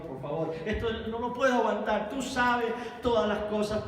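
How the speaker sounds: begs his Lord while near tears; tearful plea. Acted. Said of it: "yo creo que llorando". (súplica con voz llorosa)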